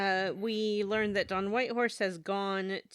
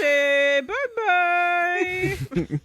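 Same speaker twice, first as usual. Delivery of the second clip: loud, very high cartoon German accent; mock German accent; 10 semitones higher, 7 dB louder, much slower than usual. Podcaster as villain Jaeger bidding farewell, mock German accent. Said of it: "that was a terrible German accent".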